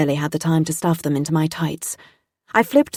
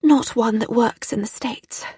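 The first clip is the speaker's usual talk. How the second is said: higher-pitched posh, plummy voice; posh, plummy accent; 6 semitones higher than usual. Acted. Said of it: "my accent posh and plummy".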